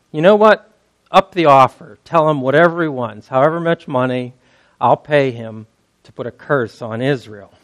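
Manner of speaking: a king pushing to get it done; eager king. Retold or imitated. King of Moab ups the offer.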